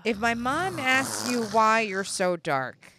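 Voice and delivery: urgent, slow warning; Italian boyfriend whispering. Retold or imitated. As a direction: tell her the plan in a hurried hush. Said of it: "He's like".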